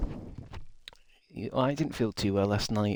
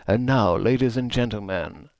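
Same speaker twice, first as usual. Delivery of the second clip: announcer intro. Shown as a demonstration. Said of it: "I'd like an announce".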